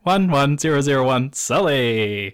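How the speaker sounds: computer voice reciting binary code; robot saying binary. Pretend. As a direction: chant the zeros and ones like a machine. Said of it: "Did you really spell something out with that?".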